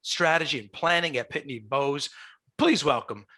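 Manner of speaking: game-show host welcome; announcer intro. Acted. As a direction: build up to the guest's name.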